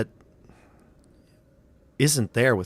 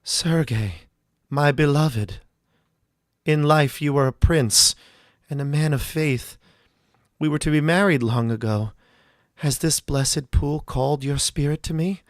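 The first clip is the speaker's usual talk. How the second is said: put-on entranced young woman; 4 semitones higher, 4 dB louder than usual. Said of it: "She grabs her heart with her hand and she says".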